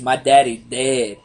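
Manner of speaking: lightly voiced kid, slow and drawn out; little kid. Orphaned kid answering the man, lightly imitated little kid. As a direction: stretch the words like a deadpan movie child. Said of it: "the kid's like".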